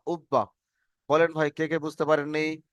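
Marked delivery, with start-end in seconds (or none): 0.1-0.5 ubba with the b sounded twice; doubled b. Shown as a demonstration. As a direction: join ub to ba with a doubled b. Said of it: "সেই অক্ষরটিকে আমরা দুবার পড়ব".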